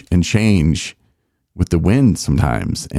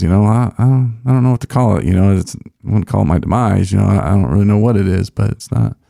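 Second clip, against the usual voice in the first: dumbfounded dad; 3 semitones higher, faster than usual. Retold or imitated. Father answers townspeople calling it his demise, lightly dumbfounded. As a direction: shrug it off, puzzled and unbothered. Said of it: "kind of that same dumbfounded attitude".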